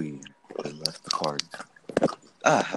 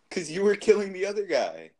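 high outraged; 11 semitones higher, 5 dB louder than usual. Real, not acted.

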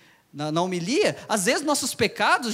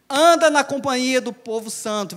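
louder verse reading; 3 semitones higher, 6 dB louder than usual. Shown as a demonstration. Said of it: "Versículo vinte e cinco diz".

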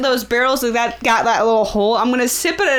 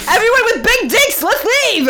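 calling from far away; 12 semitones higher, 3 dB louder than usual. Acted. Calling out to the crowd.

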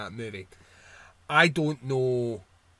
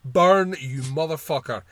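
angry outburst; 5 dB louder, slower than usual. Real, not acted. Ranting about the remake, he yells at Cage's character. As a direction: spit it out at the screen.

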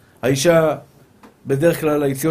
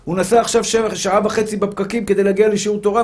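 higher-pitched pleading of defence advocates; pleading defenders; 4 semitones higher than usual. Acted. Heavenly defenders plead for a good student, high insistent appeal. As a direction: plead his case insistently in a raised pitch. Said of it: "והסנגורים אומרים".

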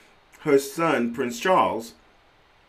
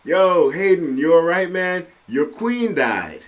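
louder, higher buddy calling out; mock concerned friend; 6 semitones higher, 6 dB louder than usual. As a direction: hype mock sympathy from a friend. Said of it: "everybody has been calling me and saying".

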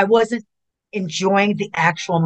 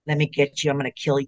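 stalking villain; 4 semitones lower, 5 dB quieter, faster than usual. Retold or imitated. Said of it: "them to see me stalk my prey".

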